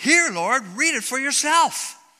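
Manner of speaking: put-on very high, loud, triumphant thick Dutch accent. Retelling what a woman said as she held up her Bible: mimicking triumphant strong Dutch accent. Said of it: "very triumphantly in her strong Dutch accent".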